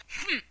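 sharp high grunt; a short, loud hm. Acted. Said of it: "an occasional exclamation of".

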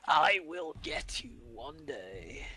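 slow, hammed-up villain vow; drawn-out playful menace; mock menacing threat. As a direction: promise revenge like a pretend villain. Mock threat of revenge in game.

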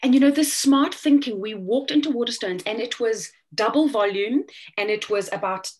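loud, eager retelling; excited. Retold or imitated. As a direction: burst out with excitement. Retelling being amazed in bookshop.

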